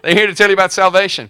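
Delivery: put-on very high, loud shrill girl crying out; high, loud mocking girl voice; shrieking slave girl. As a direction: squeal it out like the pestering girl. Preacher voicing the slave girl.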